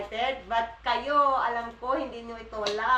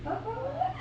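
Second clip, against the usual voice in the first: high squeaky call of Papa; 14 semitones higher, 5 dB quieter than usual. Real, not acted. Mother greeting husband in a high squeaky call. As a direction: call him in a tiny high voice.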